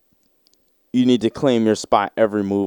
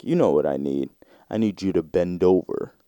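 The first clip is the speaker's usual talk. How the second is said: low sleazy executive; 4 semitones lower, 4 dB quieter than usual. Retold or imitated. Executive demands bending over.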